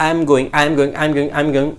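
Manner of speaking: "I am going" rattled off over and over; rapid repetition. Shown as a demonstration. Teacher shows repeating it quickly until it shortens, hurried. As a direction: run "I am going" together quickly. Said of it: "এইভাবে তুমি তাড়াতাড়ি বলতে".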